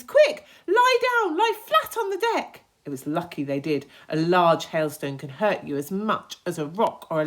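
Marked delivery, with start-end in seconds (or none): 0.0-2.6 urgent command. Acted. James ordering everyone flat on the deck, loud. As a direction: get them down fast. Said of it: "cried James".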